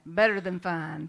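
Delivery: Southern accent, hit loud on the first word. Shown as a demonstration. Speaker imitating the speaker's own Southern accent for the audience, Southern accent. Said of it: "Do an imitation of my Southern accent".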